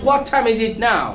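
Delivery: "time" with a puffed t inside the question; aspirated T. Shown as a demonstration. Teacher modelling for repetition, aspirated t in "time". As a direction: puff air on the t of "time". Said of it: "ঠি উচ্চারণ করার সময়".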